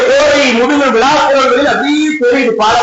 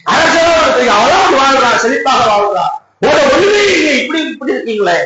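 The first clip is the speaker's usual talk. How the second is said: pouring out grief. Acted. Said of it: "மனக்கவலையை கொட்டுகின்றார்கள்".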